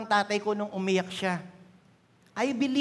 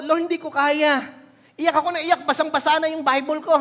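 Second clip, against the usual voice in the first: tearful preaching; 6 semitones higher, 6 dB louder than usual. Real, not acted. Retelling weeping prayer.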